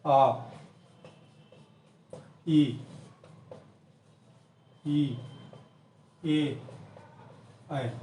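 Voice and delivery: आ ई ए ऐ sounded with open, unrounded lips; vowel demo. Shown as a demonstration. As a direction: show each vowel with the lips not rounded. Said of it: "सीधी आवाज़ कंठ से निकलती है".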